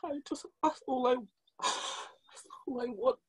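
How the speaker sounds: breathless hushed whisper. Real, not acted. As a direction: barely get the words out. Emotional answer, barely audible.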